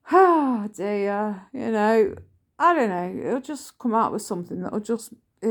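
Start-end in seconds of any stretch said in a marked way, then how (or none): 0.1-1.4 mock sighing. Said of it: "he'll be like".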